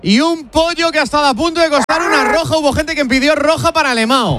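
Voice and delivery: football radio commentary, steady running call; live play-by-play. Real, not acted. Commentator telling listeners about Milla's cross, play-by-play.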